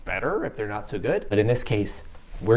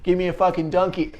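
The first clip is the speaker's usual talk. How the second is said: a hammed-up Boston accent, higher and louder; terrible Boston accent; 8 semitones higher, 5 dB louder than usual. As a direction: bark it like a bad Boston impression. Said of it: "I have a terrible Boston accent".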